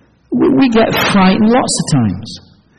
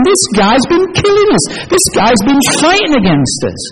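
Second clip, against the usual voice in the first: much higher, urgent accusing voices; alarmed Philistines; 5 semitones higher than usual. Retold or imitated. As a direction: point him out in alarm. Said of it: "they're remembering".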